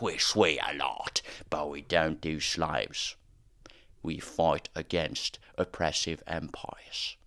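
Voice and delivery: slow, understated self-serious pirate; deadpan parody of a dark pirate, dragged out; mock gritty pirate. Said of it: "grittier sorts of pirate media, you know, the whole".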